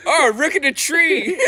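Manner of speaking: high, slow Asian accent impression; a playful Asian accent, drawn out. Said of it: "It's kinda like saying it in an Asian accent".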